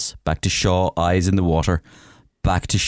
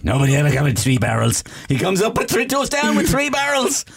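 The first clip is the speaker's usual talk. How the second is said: raised mock fisherman voice; 12 semitones higher than usual. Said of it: "then they go".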